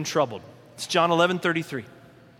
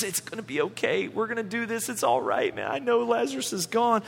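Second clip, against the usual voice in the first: much softer, soothing reassurance; consoling friend; 3 semitones higher, 4 dB quieter than usual. Retold or imitated. Jesus comforting the weeping sisters, soft and soothing. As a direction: hush them gently like a friend.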